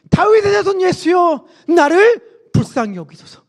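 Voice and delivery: high, ringing call for mercy; resounding cry. Acted. Blind Bartimaeus begs Jesus for mercy, crying out. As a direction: cry out high, then draw out the plea. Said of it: "쩌렁쩌렁 소리를 지르기 시작했어요".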